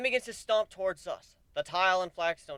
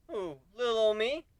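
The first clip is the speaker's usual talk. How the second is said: playful coy; 3 semitones higher than usual. Acted. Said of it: "I drop the playful tone".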